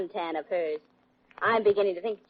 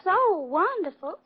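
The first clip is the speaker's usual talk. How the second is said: put-on Southern sweetness, pitched up; mock Southern accent; 8 semitones higher than usual. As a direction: tease him with a syrupy, high Southern accent. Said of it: "like me with an accent".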